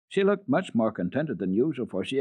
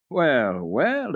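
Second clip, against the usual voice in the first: exclaiming; 4 semitones higher, 5 dB louder than usual. Acted. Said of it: "exclaimed Clara".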